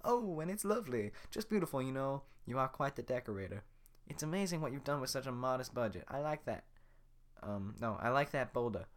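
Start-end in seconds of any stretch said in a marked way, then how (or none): 0.1-6.7 Donkey voice. Acted. Donkey sarcastic praise.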